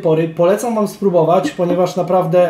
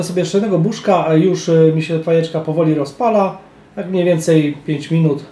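talking between hookah puffs; speaking with mouthpiece at lips. Real, not acted. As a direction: mouth near pipe tip. Seen 0: Hose mouthpiece held at or near lips throughout the words.

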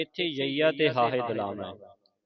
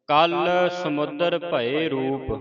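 slow, measured verse recitation; slow devotional reading; scripture recitation; 2 semitones higher, 3 dB louder, slower than usual. Shown as a demonstration. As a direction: recite with long drawn-out vowels.

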